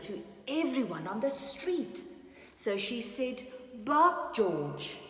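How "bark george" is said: bark command. Acted. Mother asks puppy to bark.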